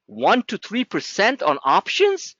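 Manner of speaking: slow, disbelieving, rising on options; incredulous repeat. Shown as a demonstration. Trader mocks a student's options guess, slow and disbelieving. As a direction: drag it out like the number is absurd. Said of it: "You must be smoking crack".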